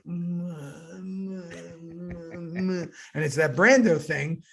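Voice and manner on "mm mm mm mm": mock actor pausing. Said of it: "And they're like".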